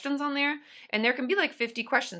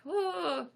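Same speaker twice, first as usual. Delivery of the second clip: choked-up ooh; 8 semitones higher, 5 dB quieter than usual. Retold or imitated. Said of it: "I was verklempt".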